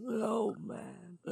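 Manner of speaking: put-on a soft Cockney old geezer; Cockney old man. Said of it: "I go Cockney when I do old voices".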